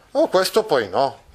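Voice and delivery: a light echo of Don Chisciotte; mild retelling of the protest. Retold or imitated. (ripetizione leggera, quasi normale)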